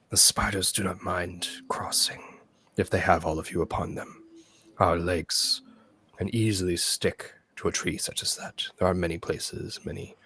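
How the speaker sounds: hushed, raspy spider whisper. Acted. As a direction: rasp it out like a giant spider. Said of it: "hear that raspy voice".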